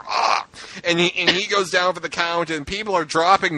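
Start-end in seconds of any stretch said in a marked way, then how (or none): 0.1-0.4 dramatic dying gasp. Retold or imitated. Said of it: "This is very dramatic".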